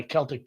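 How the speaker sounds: Celtic as "KELL-tick"; hard C in Celtic. Shown as a demonstration. Protesting by way of Celtic drums, Celtic with hard K. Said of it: "That's not how it is".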